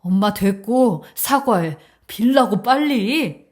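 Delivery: firm, insistent orders; impatient demand. Acted. Son orders his mother to apologize, impatient. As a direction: cut her off and press for an apology.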